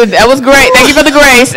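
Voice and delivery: chuckling mock gratitude; laughing irony. Real, not acted. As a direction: laugh it off wryly. Ironic thanks, laughing.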